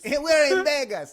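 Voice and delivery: high imitation of a let-down man; mock heartbroken. Storyteller replays the upset stranger, mock heartbroken. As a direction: protest as if deeply wounded. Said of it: "he's heartbroken".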